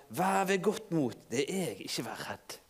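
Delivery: calm them gently; tender quiet reassurance; Jesus reassuring. Acted. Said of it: "talte Jesus til dem og sa".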